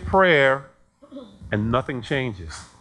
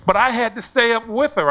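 retold angry complaint; 8 semitones higher, 5 dB louder than usual. Acted complaint of angry parent.

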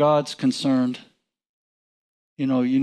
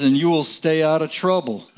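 laughing; 2 semitones higher than usual. Real, not acted. Laughing at the blunt verse.

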